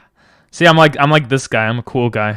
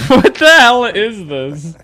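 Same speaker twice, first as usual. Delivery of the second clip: baffled; 7 semitones higher, 5 dB louder, slower than usual. Real, not acted. Reacting to a weird video.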